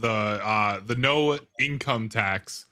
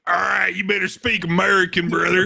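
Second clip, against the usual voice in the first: mock American yell; 4 semitones higher, 4 dB louder than usual. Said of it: "everybody else to be like".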